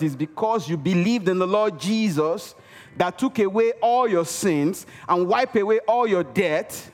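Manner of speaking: ordinary talk, nothing marked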